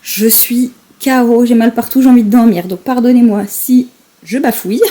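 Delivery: tired and worn out after exercise; drained, sleepy voice after the gym; after a workout. Real, not acted. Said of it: "je reviens du sport".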